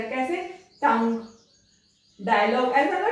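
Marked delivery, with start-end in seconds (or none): 0.8-2.7 टंग and डायलॉग ending in a plain g, no u sound; g ending, silent ue. Shown as a demonstration. Teacher demonstrating the silent ue ending to students. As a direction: end डायलॉग on a clean g. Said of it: "जीयूई ग pronounce होता है".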